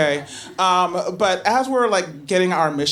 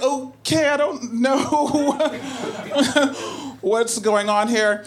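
laughing bafflement; 5 semitones higher, slower than usual. Retold or imitated.

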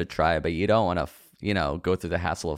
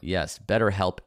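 usual speaking voice

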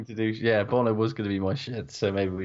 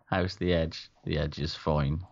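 Alan Partridge; 5 semitones lower, 3 dB quieter than usual. Acted. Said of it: "that Alan Partridge bit with a singer".

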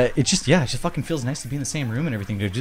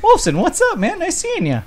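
excited greeting; 4 dB louder than usual. Real, not acted. Greeting a viewer on camera.

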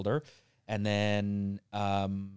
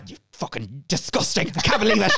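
imitated outraged mum, rising louder and higher; scolding mum; 7 semitones higher, 5 dB louder than usual. Mum seeing this podcast, mock outraged scolding. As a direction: scold like an appalled mother, hammed up. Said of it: "she's gonna be like".

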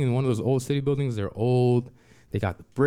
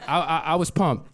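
laughing, a little higher, stammering with glee; pumped; 4 semitones higher than usual. Real, not acted. Telling the audience about his credit, laughing and giddy. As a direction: bubble over with laughter on it. Repeats line, first excited.

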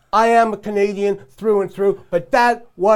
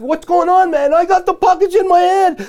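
higher and louder retold protest to the ref; retold yell at ref; 10 semitones higher, 6 dB louder than usual. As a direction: shout it at the referee as you remember it. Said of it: "And I said to, uh, the ref".

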